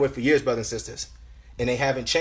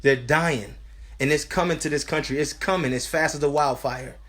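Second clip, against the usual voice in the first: earnest preacher, pitched above chatting voice; urgent sermon delivery; urgent preaching; 3 semitones higher than usual. Real, not acted. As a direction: preach a warning to the congregation. Preaches to brothers and sisters.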